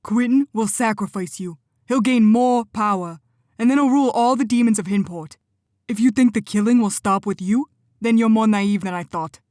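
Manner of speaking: furious rebuke. Acted. Benny angrily warns Cora against surrender, fast and loud. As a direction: tear her plan apart. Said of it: "taut with fury".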